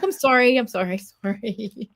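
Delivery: drawn-out laughing mock sorry; over-played playful apology. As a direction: play up a silly apology, trailing into laughter.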